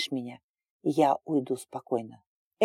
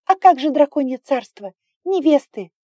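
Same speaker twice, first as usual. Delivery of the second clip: crying; 11 semitones higher, 9 dB louder than usual. A narrator's reading. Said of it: "Она продолжала плакать".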